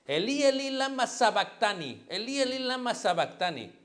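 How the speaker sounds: high, loud anguished cry of Elí, Elí; crying out to God. Retold or imitated. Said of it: "uno que dice que hablaba en lenguas". (clamor angustiado, agudo y fuerte)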